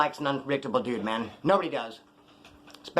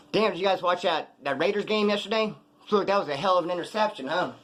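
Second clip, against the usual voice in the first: put-on casual small talk, a bit higher; playing it off; 3 semitones higher than usual. Chatting about the Raiders game after a beating, feigned casual. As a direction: act like nothing happened. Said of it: "trying to play it off".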